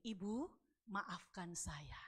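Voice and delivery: slow, soft imitated apology; subdued, halting plea for forgiveness; retold apology. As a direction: apologise slowly, voice sinking at the end.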